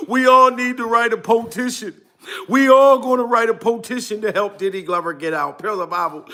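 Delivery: normal talking voice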